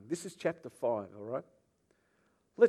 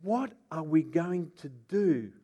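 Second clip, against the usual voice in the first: worried priests; 3 semitones higher, slower than usual. Acted. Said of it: "This is what they said".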